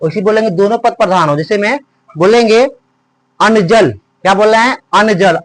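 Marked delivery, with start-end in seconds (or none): 3.4-3.9 अन्न and जल each given weight; stress on both words. Shown as a demonstration. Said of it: "दोनों में बल लग रहा है". 4.9-5.4 अन्न and जल weighted alike; stress on both words. Shown as a demonstration. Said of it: "अन्न पर भी बल लग रहा है".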